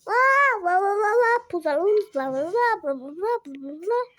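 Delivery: loud, high mock scolding; mocking the teacher. Child mocking the teacher's scolding, loud singsong. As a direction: brush it off with a loud blah blah. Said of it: "ela ficou falando".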